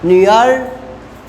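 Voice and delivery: न्यूयॉर्क said slowly with a dip and rise; slow careful tone demo; third tone. Shown as a demonstration. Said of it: "नी means होता है आपका".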